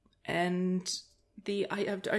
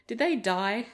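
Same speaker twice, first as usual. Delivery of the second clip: put-on child's blunt question, higher and louder; little girl; 4 semitones higher, 5 dB louder, slower than usual. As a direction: imitate a kid asking point-blank. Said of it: "she went back to it and goes".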